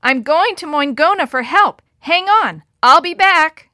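high, loud yell over the wind. Acted. Kate promising the men below to return, yelling. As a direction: shout so they hear through the storm. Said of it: "Kate yelled".

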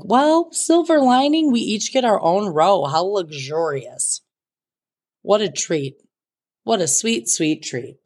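mock delight. Nearly empty plane, sarcastic.

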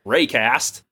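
Raycast with a broad American a; American pronunciation. Shown as a demonstration. Host demonstrating the American way of saying the name. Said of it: "say it like an American".

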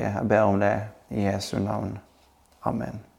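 prayer. Acted. Leads the congregation in prayer. (stille og inderlig bønn)

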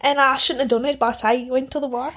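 Irish accent sliding into Scottish; put-on Irish with a Scottish edge; attempted Irish accent. Shown as a demonstration. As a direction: try Irish, let it go Braveheart. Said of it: "then you go Braveheart".

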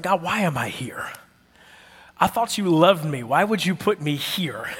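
mock-whiny questioning of God; complaining prayer. Employee asking God why am I here, complaining plea. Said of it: "you ever ask God these questions like".

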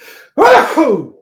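loud, high real sneeze; big sneeze. Real, not acted. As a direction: let out a sudden big sneeze. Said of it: "I'm gonna sneeze".

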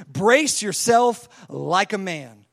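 loud, very slow command; forceful, measured challenge; God going hard. Acted. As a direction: order Job sternly, each word drawn out. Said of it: "he just goes hard on him".

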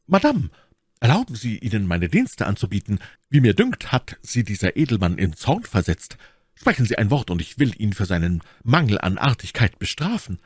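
lightly voiced courteous gallant; respectful young gallant. Young man offering Milady his services, respectful. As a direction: offer service with a slight lift. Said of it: "zog ehrfurchtsvoll seinen Hut und sagte".

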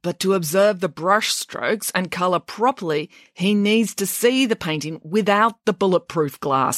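slow, deliberate explanation; measured, long-suffering tone; weary repetition. Acted. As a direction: explain it slowly with strained patience. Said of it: "said the same thing several times before".

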